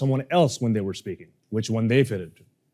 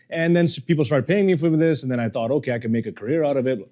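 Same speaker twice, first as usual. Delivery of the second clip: filler-laden run-on with no pauses; nonstop, aimless public-speaking ramble; rambling bad speaker. Shown as a demonstration. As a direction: ramble on in one long string, barely stopping. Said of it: "If I was a shitty speaker, this is what I would say".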